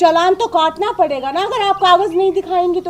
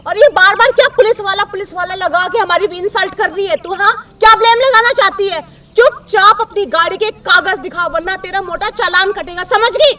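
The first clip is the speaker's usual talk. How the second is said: angry scolding; 3 semitones higher, 5 dB louder than usual. Acted. Policewoman ordering a rider to show papers, angry scolding. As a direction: lay down the law with loud bursts.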